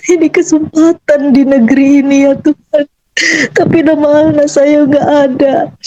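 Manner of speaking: choked-up prayer retold; tearful pleading. Mother bargaining with God for her child, tearful pleading. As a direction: beg God through held-back tears.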